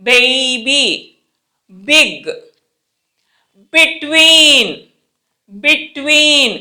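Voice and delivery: B pressed hard at the start of BIG and BETWEEN; careful teacher's model, each word drawn out; emphatic B. Shown as a demonstration. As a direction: lean firmly on every B. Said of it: "బి అనేది చాలా ఒత్తి పలుకుతున్నాం".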